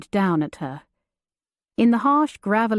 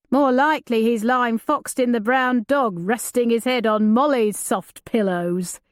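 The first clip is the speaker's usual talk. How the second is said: jesting outlaw; 3 semitones higher than usual. Acted.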